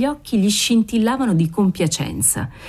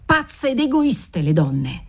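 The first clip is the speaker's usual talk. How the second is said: exasperated yell; 5 semitones higher, slower than usual. Acted. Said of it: "urlò lui esasperato".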